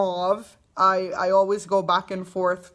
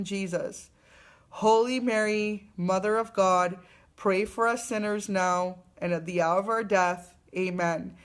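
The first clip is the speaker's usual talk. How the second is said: measured, reverent prayer read aloud; a gentle spoken prayer for a viewer; prayer recitation. Acted. Recites the Hail Mary prayer.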